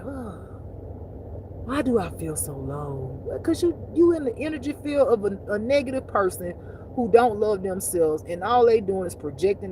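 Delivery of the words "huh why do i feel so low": mock low mood. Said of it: "you just like".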